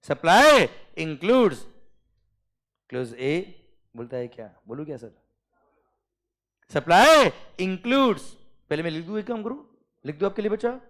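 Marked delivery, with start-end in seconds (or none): 0.1-1.6 each word drawn out very slowly and loudly; slow classroom dictation. Shown as a demonstration. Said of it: "जिस speed से मैंने बोला ना बेटा". 6.7-8.2 each word drawn out very slowly and loudly; slow classroom dictation. Shown as a demonstration. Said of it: "जिस speed से मैंने बोला ना बेटा".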